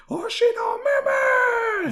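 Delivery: loud, high shout to the sky; shouting a name. Retold or imitated. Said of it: "Just shouts".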